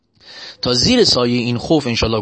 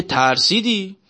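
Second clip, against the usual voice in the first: usual speaking voice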